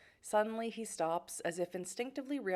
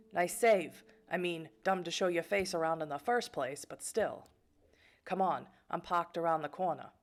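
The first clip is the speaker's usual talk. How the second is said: lightly voiced gravelly tough guy; a touch of gravel in the voice. D'Angelo greeting the player in the shadows, lightly gravelly voice. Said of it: "the gravelly voice sure does".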